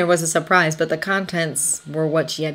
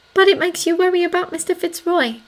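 high, gently concerned voice; gentle; 13 semitones higher than usual. A narrator's reading. Anna gently prompting Thomas about his friend, gentle. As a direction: probe gently, in a lighter, higher register. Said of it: "Anna said gently".

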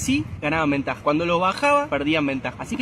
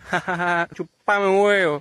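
louder, slow mocking jeer; mocking taunt; 5 dB louder, slower than usual. Moses taunting the pharaoh with a slow, loud mocking jeer. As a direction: drag out the insult as a gloating jab.

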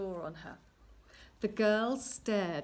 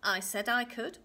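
snapping; 4 dB louder than usual. Acted. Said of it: "the little man snapped".

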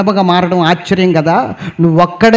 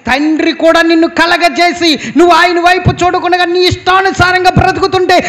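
higher, rising sermon cry; impassioned preaching; 7 semitones higher than usual. Acted. Pastor urging the congregation about God's grief, impassioned preaching.

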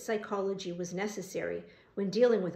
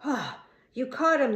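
slow, loud gasp of relief, pitched up; breathless exclamation; 4 semitones higher, 6 dB louder than usual. A narrator's reading. Winded foreman to the policeman, breathless exclamation. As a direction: exclaim it after a big puff of breath. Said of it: "the foreman exclaimed breathlessly".

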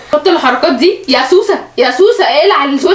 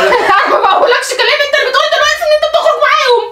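laughing through words; 7 semitones higher than usual. Acted. Mock argument breaks into laughter.

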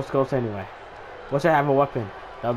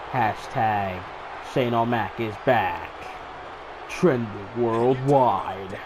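announcer voice; 4 semitones lower, 4 dB quieter than usual. Acted. Announcer-style hype line.

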